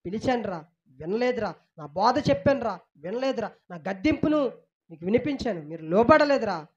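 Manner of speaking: a hurt father saying I called and you did not listen; God's voice. Acted. Preacher voicing God reproaching the people who ignored him. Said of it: "అని దేవుడు ఎన్నోసార్లు దేవుడు పిలుస్తుంటే".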